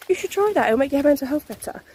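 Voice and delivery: mock advice. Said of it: "everyone says".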